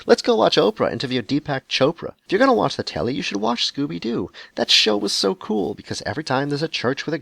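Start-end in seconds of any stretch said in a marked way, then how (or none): 0.0-2.1 mock solemn seeker. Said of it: "looking serious and saying".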